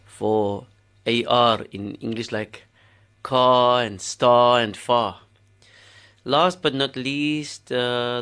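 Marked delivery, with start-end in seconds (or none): 3.2-5.2 Cape Town long ah in ka, star, fa; Cape Town dialect. Shown as a demonstration. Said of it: "produce in the Cape Townian dialect".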